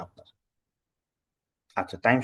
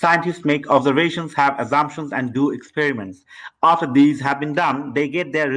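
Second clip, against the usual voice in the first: read-aloud without waiting; much slower than usual. Shown as a demonstration. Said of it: "আমি direct start করে দিই".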